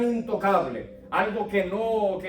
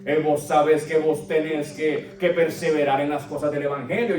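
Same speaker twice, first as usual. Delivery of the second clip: put-on sing-song Colombian accent, lightly done; Pablo with Colombian accent; 4 semitones lower than usual. Paul urging Timothy in a light Colombian accent. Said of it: "animar los escritos de Pablo con mi voz colombiana".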